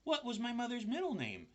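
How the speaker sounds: high small voice; second spider asking; little spider voice. A narrator's reading. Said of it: "the second spider".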